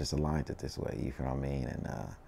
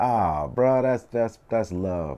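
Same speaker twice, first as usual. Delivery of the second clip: retold heartfelt outburst, high and loud; moved gratitude; 6 semitones higher, 7 dB louder, much slower than usual. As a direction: burst out with thanks, then ease down. Retelling his thanks for birthday gift.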